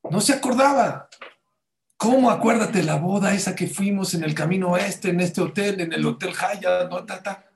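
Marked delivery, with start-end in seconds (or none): 2.0-7.4 eager reminding. Retold or imitated. Retold phone call to woman.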